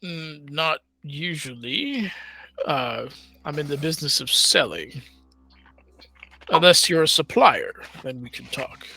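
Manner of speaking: deep gravelly voice. Acted. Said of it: "Kind of a deep, gravelly voice".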